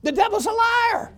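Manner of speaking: high, loud rebuke; commanding shout. Retold or imitated. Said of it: "this is what the Lord said".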